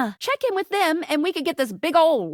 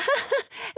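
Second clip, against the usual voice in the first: soft, high little chuckle; short laugh; 10 semitones higher, 6 dB quieter than usual. Acted. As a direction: let out a small, quiet laugh. Laughs between her own lines.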